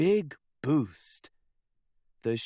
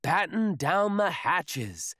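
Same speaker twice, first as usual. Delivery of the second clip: captain's order; 5 semitones higher than usual. Acted. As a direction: give the crew an order. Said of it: "says Captain Pete".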